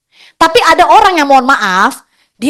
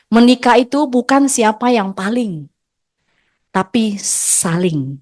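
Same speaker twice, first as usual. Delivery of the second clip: sincere advice; 2 semitones lower, slower than usual. Real, not acted. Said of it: "marriage wisdom to wives".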